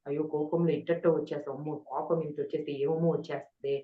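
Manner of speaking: understated regret, softly self-reproaching; retold remorse. Speaker recalls scolding herself after an angry outburst, mildly remorseful. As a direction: quietly lament to yourself, as if replaying it. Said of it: "పశ్చాత్తాపడేదాన్ని".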